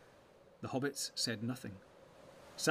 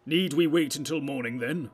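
urgent challenge; 3 semitones higher, 9 dB louder than usual. Acted. Wizard urges action after alarm.

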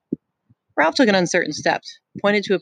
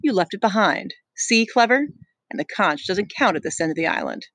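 sneering; 2 semitones higher than usual. Acted.

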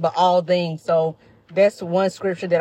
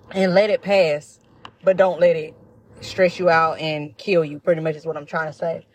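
talking while chewing; crunching chips. Real, not acted. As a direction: speak through a mouthful of chips. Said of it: "I'm sorry if I'm crunching in y'all ear".

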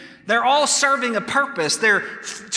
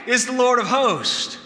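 building angel shouts; 4 dB louder than usual. Acted. Preacher acting out angels calling, loud and rising. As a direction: echo the seraphim, building to a shout. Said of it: "calling out to one another with loud shouts".

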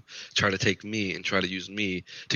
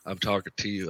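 softer, cold and calm threat; calm menacing; 6 dB quieter than usual. Retold or imitated. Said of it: "I tell people in the calmest way possible".

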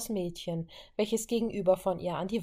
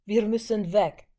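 urgent brother; 3 semitones higher, 7 dB louder than usual. Acted. Pietro urges escape.

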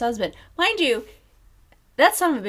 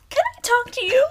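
mom pulling him aside; 14 semitones higher, faster than usual. Retold or imitated. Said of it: "And she goes".

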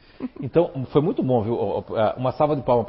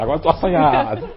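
joking through a laugh; 4 semitones higher than usual. Pretend. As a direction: laugh while teasing. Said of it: "Tô brincando".

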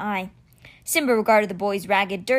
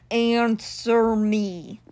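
roaring cheetah; much slower than usual. A narrator's reading. Stone cheetah demands an answer from the boy, roaring. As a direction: roar the name, stretching it out. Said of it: "Simba roared".

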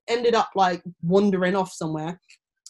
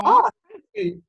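high, drawn-out retold thanks; slow, high-pitched grateful coo; touched thanks; 11 semitones higher, 5 dB louder than usual. Acting out her touched reply.

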